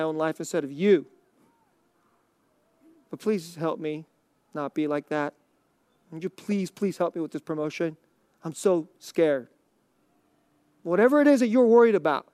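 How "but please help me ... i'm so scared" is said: soft pleading prayer. Shown as a demonstration.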